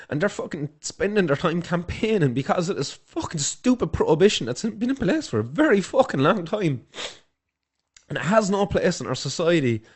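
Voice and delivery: heated, swearing outburst at the politicians; emotional rant. Real, not acted. Ranting to viewers about the drug prohibition, real anger. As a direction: let the anger spill over as you talk. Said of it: "sorry guys for getting emotional".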